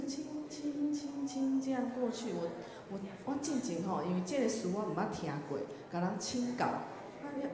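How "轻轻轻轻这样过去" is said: higher, slowly gliding syllables; drawn-out illustration. Shown as a demonstration. Teacher explaining a hymn word's meaning, drawn-out and gliding. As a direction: stretch each syllable as if drifting gently past.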